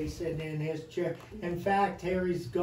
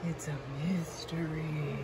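whisper; 4 semitones lower, 8 dB quieter than usual. Acted. Spooky tour guide teases kids.

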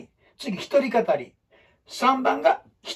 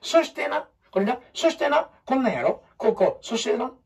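animated, high storyteller; lively gestured telling; 4 semitones higher than usual. Shown as a demonstration. Teacher showing how to narrate with the body, animated. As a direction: tell it with your whole body. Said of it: "体で話すやねん".

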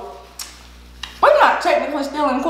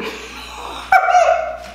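high squealing laugh. Real, not acted. Big laugh.

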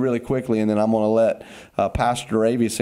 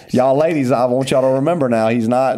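playful tease; 5 dB louder than usual. Real, not acted. Teasing announcement to ladies.

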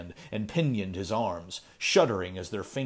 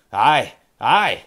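put-on old miser's quick, louder mutter; hurried mutter; 3 semitones higher, 11 dB louder than usual. Ezra brushing off Kane's tale, hurried old voice. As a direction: rush it out like a nervous old man. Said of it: "muttered old Ezra hurriedly".

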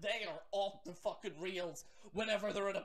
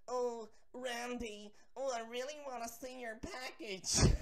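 slow, lightly voiced lusty fan; mildly mocking a smitten fan; swooning fangirl; 2 semitones higher than usual. Vlogger mocks fangirls tweeting at Randy, slow and swooning. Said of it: "idiots going".

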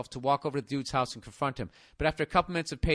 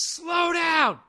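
high, loud mock shout stretched out; imitated yell; 6 dB louder than usual. Neighbor yelling at a passing driver, exaggerated shout. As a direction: yell it like an angry neighbor, hammed up. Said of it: "he looks at me and yells".

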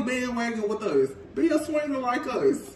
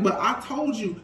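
laughing; 3 semitones higher, faster than usual. Retold or imitated. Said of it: "This man is like".

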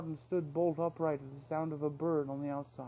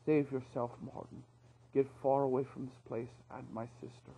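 weak and despairing; 2 semitones lower than usual. Acted. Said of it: "He sounded weak and despairing".

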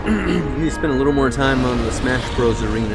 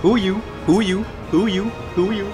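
high, quick identical little calls; playful repeated chirp; 7 semitones higher than usual. Pretend. Player idly repeating a silly phrase, playful high chirp. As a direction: chirp it over and over, higher pitched.

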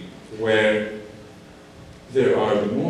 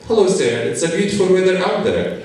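higher, overly polite stock phrase; rehearsed greeting; 6 semitones higher than usual. Retold or imitated. Friend repeating his one English sentence, stiffly polite. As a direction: recite it like a textbook line. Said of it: "the only sentence that my friend said".

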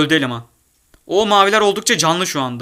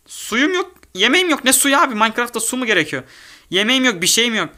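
high whiny complaint; 8 semitones higher than usual. Real, not acted. Complaining, no water or food.

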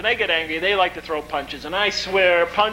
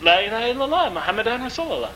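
moderately raised, restrained recitation; retold first response; 4 semitones higher, faster than usual. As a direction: repeat it obediently, well short of a shout. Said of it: "I said".

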